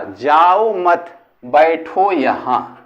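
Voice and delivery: slow "जाओ मत", a break, then "बैठो यहां"; pause after मत. Shown as a demonstration. Teacher repeating the example with its comma, slow break after मत. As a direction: split the command after मत, drawing out both halves. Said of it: "यहां पे अल्प विराम लगा देंगे".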